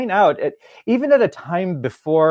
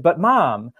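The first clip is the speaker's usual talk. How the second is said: put-on higher, lightly whiny child; whiny kid voice; 5 semitones higher than usual. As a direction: play the innocent little kid. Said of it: "probably in a fairly high-pitched, whiny voice".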